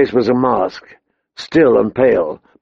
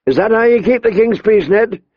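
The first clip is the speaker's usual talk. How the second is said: higher, pressing the accusation; angry challenge; 9 semitones higher than usual. A narrator's reading. The king confronting his injured Hand, angry. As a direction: demand an answer, heated.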